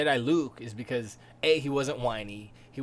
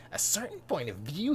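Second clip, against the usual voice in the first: high, whiny questioning lilt; petulant echo with a rising end; farm boy attitude; 4 semitones higher than usual. Retold or imitated. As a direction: mimic a bratty farm kid. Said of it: "he's got that little foreign, farm boy attitude".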